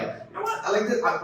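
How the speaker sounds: jumps up high on You know what; a bright squeal of delight at the start; mock-excited teammate; excited approval. Imagined team member approving.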